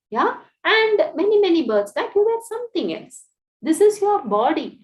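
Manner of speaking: wise friend questioning. Acted. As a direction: press her to see who she really is. Divine friend questions the widow.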